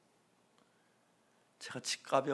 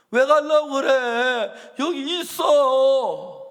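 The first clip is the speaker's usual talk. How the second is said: slow, loud, high shouting; angry shout; 9 semitones higher, 14 dB louder, much slower than usual. Retold or imitated. Pastor shouting at the brother not to leave, slow and loud. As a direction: shout him down so he stays. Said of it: "내가 화를 냈어요".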